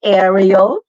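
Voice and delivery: "Ariel" with a stressed, fussy short a; showy short-a "Ariel"; maarte short A. Shown as a demonstration. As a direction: push the first a of "Ariel" loud and clear. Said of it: "it's the maarting A".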